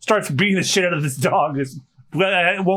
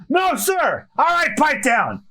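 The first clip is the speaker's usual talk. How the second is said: pirate captain Buggy; 7 semitones higher than usual. Acted. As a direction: bark orders at the crew, pitched high. Reads Buggy's lines.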